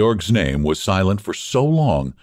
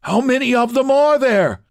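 much higher, hopeful asking; eager question; 4 dB louder than usual. Acted. Georg asks Ulrich how many come, eager high question. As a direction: ask in anxious hope.

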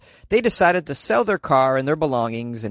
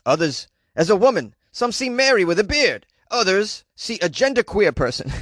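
put-on old Jewish man voice. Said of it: "I was doing an old Jewish man, uh, voice".

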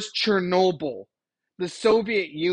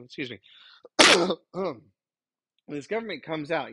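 rough throat; 3 semitones lower than usual. Real, not acted. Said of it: "You gotta love that voice".

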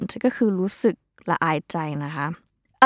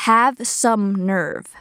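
slow model phrase; much slower than usual. Shown as a demonstration. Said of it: "คำต่อไป".

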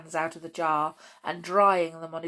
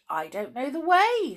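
put-on higher, helpless girl voice; 8 semitones higher, 4 dB louder than usual. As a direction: Goldilocks worried. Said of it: "said Goldilocks".

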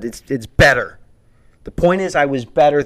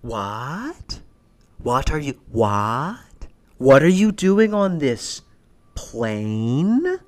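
outraged disbelief; much slower than usual. Retold or imitated. Outraged at shoeless seatmate.

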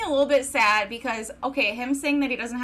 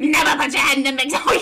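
put-on loud, quick, failed Southern accent slipping into New York; New York-sounding Southern; 5 dB louder, faster than usual. Host attempting Southern accent, coming out New York, laughing. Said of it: "It sounds more New Yorkie".

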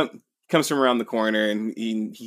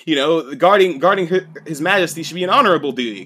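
raised, higher mock outrage; hammed-up noble's tantrum; retold shout; 7 semitones higher, 7 dB louder than usual. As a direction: rant like a wounded aristocrat. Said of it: "kinda shouts at him".

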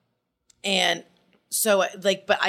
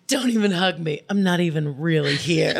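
lightly hammed-up sulk, sinking lower; comical teen melodrama; 4 semitones lower than usual. Refusing a hug, mock teenage drama. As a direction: pout it with mock despair. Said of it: "where it's comical".

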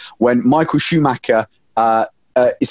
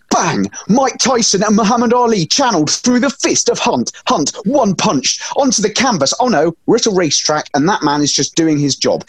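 animated, higher-pitched blow-by-blow retelling; mock fight commentary; 6 semitones higher than usual. Podcaster retelling Hunt's punch to co-hosts, mock fight commentary. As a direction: play it up like a lively boxing call.

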